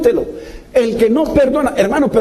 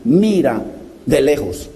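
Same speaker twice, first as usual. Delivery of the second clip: scripture reading; 6 semitones lower, slower than usual. Retold or imitated.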